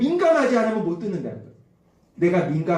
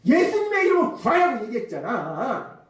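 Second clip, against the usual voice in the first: mock loud scolding, pitched high; 4 semitones higher than usual. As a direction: raise the pitch as if telling someone off. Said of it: "막 큰 소리로". (큰 소리로 다그치는 흉내)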